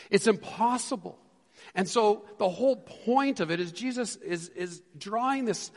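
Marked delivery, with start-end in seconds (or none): 0.1-1.2 "impossible" higher and firmer; firm declaration; emphatic. Shown as a demonstration. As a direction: push it out with weight. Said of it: "repeat louder".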